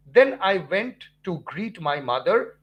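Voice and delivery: "Then I went to greet my mother" said slowly and evenly; measured, unhurried sentence for learners; slow paced demo. Shown as a demonstration. Teacher showing students slow speech, slow and even. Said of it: "take a pause".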